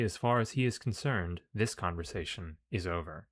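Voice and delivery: measured, projected story reading; story narration. A narrator's reading. Player reads the game's mission text aloud, narrating. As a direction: read it out like an adventure tale.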